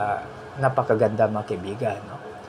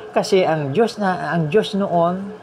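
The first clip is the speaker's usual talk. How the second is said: slow, drawn-out preaching; slow emphasis; 5 semitones higher, slower than usual. Real, not acted. Preacher slowing down to stress God's sameness. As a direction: stretch each word to make the point. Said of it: "preacher emphasising".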